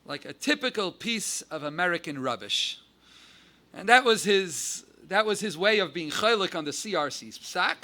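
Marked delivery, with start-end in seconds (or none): 0.0-2.8 lightly imitated English accent, measured pace. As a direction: quote the London rabbi in a mild English accent. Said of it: "In his English accent".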